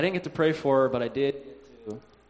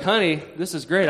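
higher, louder imitation of delighted grandma; excited grandma; 4 semitones higher, 5 dB louder than usual. Grandma thrilled her legs move, imitated excitement.

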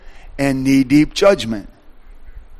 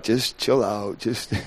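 wife hushing him; 3 semitones lower, 12 dB quieter, slower than usual. Retold or imitated. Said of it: "she'd be like".

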